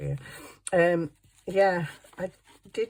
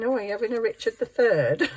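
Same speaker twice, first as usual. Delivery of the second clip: 1 joking; 5 semitones higher, 6 dB louder than usual. Retold or imitated. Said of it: "I was joking with him saying".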